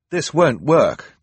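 high, slow, worried Klaus; worried boy. Acted. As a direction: cemas dan lambat. Klaus stuck in chute.

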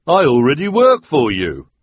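a henchman yelping in protest; hook-handed man protesting. A narrator's reading.

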